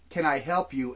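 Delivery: a polite offer with suspicion under it; mock helpful, really asking what you're up to; veiled suspicion. To a stranger walking by, veiled suspicious offer. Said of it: "that veiled".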